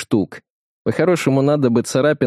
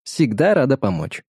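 Alisa voice assistant; 3 semitones higher than usual. Acted. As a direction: answer like a friendly voice assistant. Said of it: "ответила Алиса". (голос помощника Алисы)

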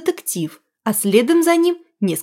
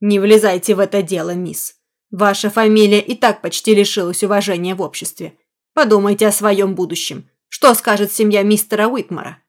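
menacing smirk. Acted. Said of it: "С угрозой ухмыльнулся детектив".

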